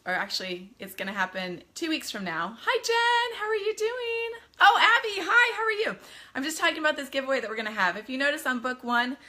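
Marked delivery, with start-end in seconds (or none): 2.6-4.4 much higher, louder, delighted hello; light up to greet a friend; excited greeting. Real, not acted. Greeting a viewer on live stream. 4.6-6.0 much higher and louder, thrilled hello; excited greeting. Real, not acted. Greeting a viewer on live stream.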